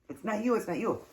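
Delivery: high-pitched, acted struggle to get words out; imitating helpless laughter. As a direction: squeeze it out as if shaking with laughter. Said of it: "I'm trying to get it out ... like shaking".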